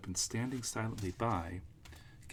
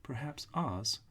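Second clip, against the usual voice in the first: put-on little old witch; 6 semitones higher than usual. Witch figure, high voice.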